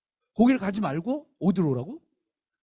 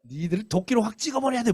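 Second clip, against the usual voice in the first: higher, stern mock scolding; mild mock scolding, raised pitch; 6 semitones higher than usual. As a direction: threaten them with the axe. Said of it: "뭐 이런 거예요".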